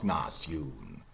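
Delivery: NATION slowly as "nas-YOON"; Middle English pronunciation. Shown as a demonstration. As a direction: draw out nation with open a and "oo". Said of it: "must have been in Middle English".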